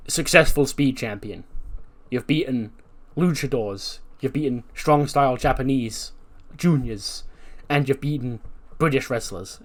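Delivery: put-on a light American accent for the interviewer. Interviewer hyping the Speed Champion in a light American accent. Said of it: "giving him the American accent".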